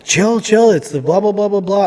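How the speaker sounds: high-pitched mimicry of the nurse; calming nurse. Nurse trying to calm him down, high mimicked voice. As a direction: brush the patient's panic aside, in imitation. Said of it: "trying to calm me down".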